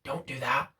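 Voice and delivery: whispered tempting voice; inner bad voice. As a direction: hiss it like a devil on your shoulder. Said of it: "and it goes".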